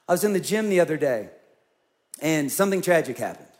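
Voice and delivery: normal talking voice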